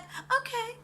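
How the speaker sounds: high, light little okay; mock meek okay. Imitating March giving in, high and light. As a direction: squeak it out like an easy yes.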